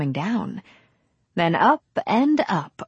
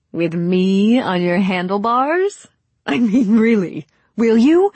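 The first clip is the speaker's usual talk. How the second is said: put-on louder, rising girlish excitement; slow hopeful question bursting into eager pleading; 2 semitones higher, 6 dB louder than usual. A narrator's reading. Young woman asking for a handlebar ride, eagerly excited.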